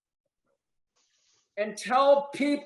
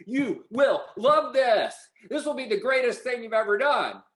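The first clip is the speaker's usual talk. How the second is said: sales pitch enthusiasm; 4 semitones higher than usual. Shown as a demonstration. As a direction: sell it like the best thing ever. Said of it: "step back and watch me".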